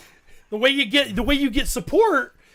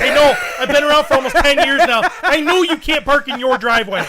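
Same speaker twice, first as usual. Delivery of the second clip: louder, fed-up retort; exasperated reply; 6 dB louder than usual. Retold or imitated. Telling the neighbor off in the driveway, louder and fed up. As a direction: tell the neighbor you know already. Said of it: "I'm like".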